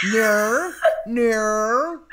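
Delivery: loud "No" with a drawn-out Australian vowel. Acted. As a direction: exaggerate the Australian "No", stretching it out. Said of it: "who can do the Australian no".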